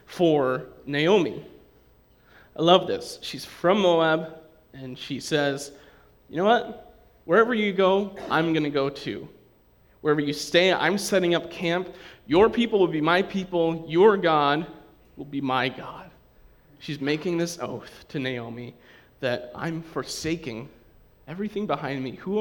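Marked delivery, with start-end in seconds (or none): 6.3-16.1 ringing out Ruth's vow louder, pitch lifted; fervent vow. Acted. Preacher voicing Ruth's vow to Naomi, fervent and loud. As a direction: declare it like a solemn oath.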